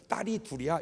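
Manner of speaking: put-on matter-of-fact parent stating the children; proud answer. Shown as a demonstration. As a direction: answer plainly, without regret. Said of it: "이래야 되는데".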